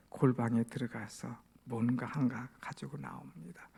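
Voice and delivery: ordinary talk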